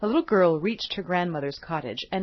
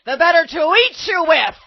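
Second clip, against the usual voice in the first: loud, higher triumphant wolf; wolf exclaims; 8 semitones higher, 9 dB louder than usual. Acted. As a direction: pounce with the words. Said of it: "exclaimed the wolf".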